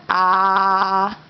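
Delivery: a mild chest-thumping gorilla grunt; gorilla sound. Shown as a demonstration. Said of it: "Can you do like this? Thump your chest".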